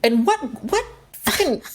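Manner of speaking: high, baffled rant; exasperated disbelief. Retold or imitated. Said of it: "And it's like".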